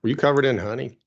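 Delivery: lightly Southern mock questioning; Southern accent. Mock-questioning a bear attack victim in a Southern accent. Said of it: "rest of the show with a Southern accent".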